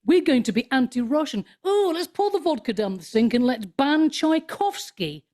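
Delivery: put-on voice of a foolish crowd; mocking imitation. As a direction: parody silly people proudly announcing a pointless boycott. Mocking the anti-Russian herd.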